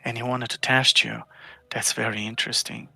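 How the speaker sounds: quiet, lightly voiced cultist musing; intrigued cultist. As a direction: muse softly, with understated suspicion. Game master voices cultist.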